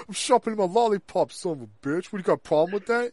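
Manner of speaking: lightly voiced New York tough guy; mock challenge in a light New York accent; New Yorker accent. Co-host parodies the cook sharpening his lollipop, light New Yorker accent. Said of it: "like, a New Yorker".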